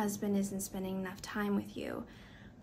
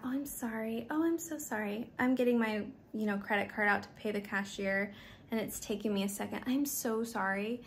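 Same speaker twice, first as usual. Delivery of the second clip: mock over-apologizing. At the cashier's counter, mock over-apologetic. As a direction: fumble and keep apologizing. Imitating her own apologetic self.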